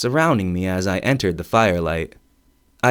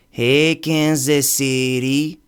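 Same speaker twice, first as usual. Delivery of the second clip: The Rock; 3 semitones higher, slower than usual. Retold or imitated. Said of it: "I felt like The Rock".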